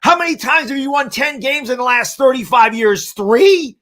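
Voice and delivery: loud, high, gloating taunts; mocking trash talk. Host taunting a Washington fan in chat, loud gloating mockery. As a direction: rub it in the rival's face.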